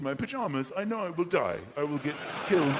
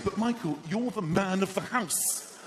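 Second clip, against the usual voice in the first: higher, drawn-out wife voice; wife's coaxing; 4 semitones higher than usual. Acted. Wife reminding husband of his duty, coaxing. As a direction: coax him slowly, pitched up. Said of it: "She always says the same thing".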